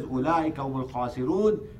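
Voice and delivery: rapid chanted Arabic recitation; flowing Quranic recitation, quick and even. Acted. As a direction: recite the verse fast, in one breath. Quran recitation inside sermon.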